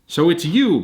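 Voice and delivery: gruff professor. Acted. Professor Mezzacotti greeting Arthur at his door, lightly voiced. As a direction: greet him like an old eccentric. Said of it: "Professor Mezzacotti said".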